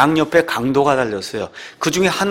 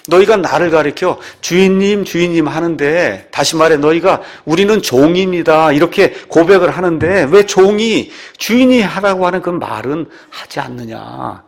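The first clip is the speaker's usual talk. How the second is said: raised, louder preaching voice; emphatic preaching; 4 semitones higher, 5 dB louder than usual. Acted. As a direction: press the rebuke home to the congregation. Preacher voices Jesus's rebuke.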